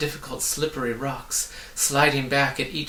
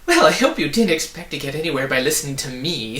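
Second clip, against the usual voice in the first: louder, gloating delight; gleeful; 3 semitones higher, 7 dB louder, faster than usual. A narrator's reading. The voice mocking the fallen travellers, gleeful. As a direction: relish the trick. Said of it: "said the voice gleefully".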